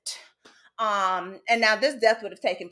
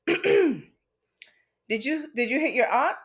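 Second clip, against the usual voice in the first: stern mother; 3 semitones higher, slower than usual. Retold or imitated. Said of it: "So I was just like, "All right." clears throat".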